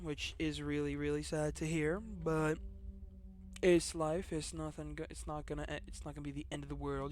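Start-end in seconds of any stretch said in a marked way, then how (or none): 4.3-7.1 stumbling, restarting words; stuttering. Real, not acted. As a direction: trip over the start of each phrase. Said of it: "I don't know why I'm stuttering so much today".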